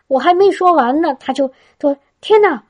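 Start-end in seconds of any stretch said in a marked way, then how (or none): 2.2-2.6 a high, quoted "天哪" of sudden amazement; retelling the old woman's astonished outcry; amazed cry. Retold or imitated. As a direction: gasp it out as if the arm just moved. Old woman amazed, arm healed.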